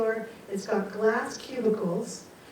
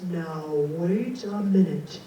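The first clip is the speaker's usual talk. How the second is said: businesslike voice; 4 semitones lower than usual. Retold or imitated. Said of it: "the businesslike voice goes".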